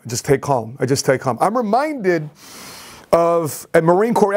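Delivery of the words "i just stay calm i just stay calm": low, composed self-reassurance; calm. Retold or imitated. Patient steadying himself in the ER, retold calm. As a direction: settle yourself down in a lower voice. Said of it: "I remember calm".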